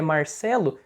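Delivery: "Marcelo" with the R of Paraná; the speaker's home Paraná pronunciation; Paraná accent. Shown as a demonstration. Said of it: "Que nem o meu nome".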